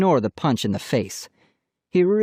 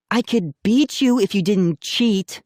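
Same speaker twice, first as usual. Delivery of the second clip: defiant declaration; 9 semitones higher than usual. A narrator's reading. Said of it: "Molly declared".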